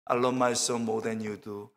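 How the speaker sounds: very slow, low and soft; voice of God. Retold or imitated. Preacher voicing God answering his prayer, slow and low. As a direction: savour each word like a loving father. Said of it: "그때 두 번째 음성".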